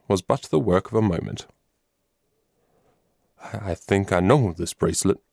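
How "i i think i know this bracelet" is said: halting, stumbling start on I, I; stammering. Acted. The colonel recognizes the bracelet, stammering. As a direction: falter over the first words. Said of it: "stammered Colonel B".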